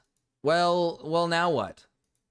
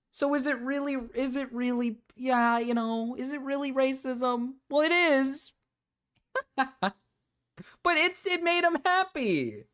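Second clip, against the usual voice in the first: put-on high voice; 6 semitones higher than usual. Streamer joking race play made someone happy, high mock voice. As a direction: argue it in a silly, raised voice.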